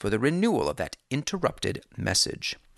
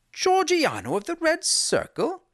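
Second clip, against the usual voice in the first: startled whisper. A narrator's reading. Holmes startled hushed.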